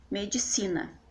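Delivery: "medicina", weight on the next-to-last syllable, falling end; penultimate stress. Shown as a demonstration. Teacher giving an example of paroxytones, stressed on si in "medicina". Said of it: "medicina tá no si de medicina".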